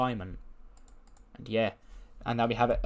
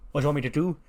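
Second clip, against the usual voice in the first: higher-pitched don throwing the question back; indignant mob boss; 4 semitones higher, much faster than usual. Acted. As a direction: echo it back in acted indignation. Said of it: "He goes".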